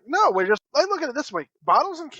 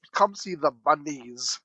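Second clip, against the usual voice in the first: mocking slow repeat; 5 semitones lower, slower than usual. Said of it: "And, like".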